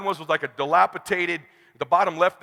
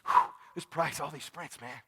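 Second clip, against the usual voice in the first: mumbled, much softer, unsure; hesitant client; 3 semitones lower, 8 dB quieter than usual. Retold or imitated. A client mumbling doubts over the price, softly hesitant. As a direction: hedge it under your breath like a wavering client. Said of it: "Jordan sitting there go".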